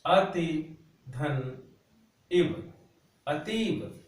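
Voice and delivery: अतिधन spelled out very slowly, part by part; slow dictation. Shown as a demonstration. Teacher dictating the answer to the class, very slow. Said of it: "पहला है".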